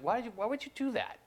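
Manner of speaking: wife asking the son in disbelief, mock shocked. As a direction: imitate a stunned mother's disbelief. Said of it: "my wife said".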